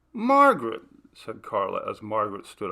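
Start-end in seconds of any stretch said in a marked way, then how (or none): 0.1-0.8 high, loud call of her name. Acted. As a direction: call her back as she wanders off. Carla calls Margaret as she leaves.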